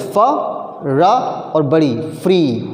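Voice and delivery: free split sound by sound, फा, रा, long ई, then फ्री; फा ... रा ... then the whole word फ्री; sounding out phonemes. Shown as a demonstration. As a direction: say फा and रा apart with pauses, then blend into फ्री. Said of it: "sounds में बोलने के बाद तोड़ दोगे".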